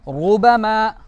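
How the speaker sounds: रुबमा with a full, heavy R, drawn out; thick heavy R. Shown as a demonstration. Teacher modelling for pupils to repeat, thick R. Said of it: "इसको कैसे पढ़ेंगे".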